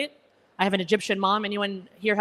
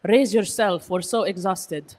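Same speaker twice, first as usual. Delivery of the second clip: exhausted parents; much slower than usual. Retold or imitated. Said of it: "They were like".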